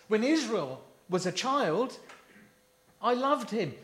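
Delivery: preacher voicing God's love for the child Israel; tender voice of God. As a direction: say it like a loving father. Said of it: "Hosea puts it like this".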